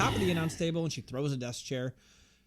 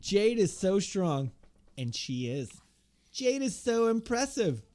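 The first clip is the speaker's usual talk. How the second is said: slow, hammed-up promo reading; lightly mocking wrestler's promo, stretched out; Nia Jax; 3 semitones higher, slower than usual. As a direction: recite scripted praise with high, drawn-out peaks. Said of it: "Nia Jax goes".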